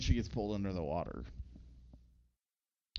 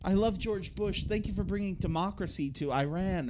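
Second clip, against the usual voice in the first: higher gushing lady voice; lady gushing her thanks, in a high put-on voice; mock lady; 7 semitones higher than usual. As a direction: gush with adoring praise. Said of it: "Then some lady goes".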